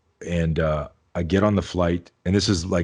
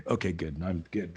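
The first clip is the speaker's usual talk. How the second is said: quiet; 9 dB quieter than usual. Retold or imitated. Relieved inner thought, aside.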